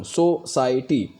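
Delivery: सोसाइटी said slowly, syllable by syllable; सोसाइटी drawn out syllable by syllable; syllable split. Shown as a demonstration. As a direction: pull सोसाइटी apart into syllables. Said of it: "अगर सोसाइटी बोलूँ".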